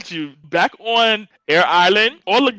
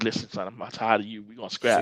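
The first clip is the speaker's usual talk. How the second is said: mock Mako; 9 semitones lower, 11 dB quieter than usual. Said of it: "Mako, he's like".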